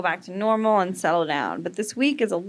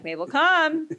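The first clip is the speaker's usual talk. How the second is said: calling the dog; 8 semitones higher, slower than usual. Retold or imitated. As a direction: call the dog sharply across the yard. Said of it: "So I'm like".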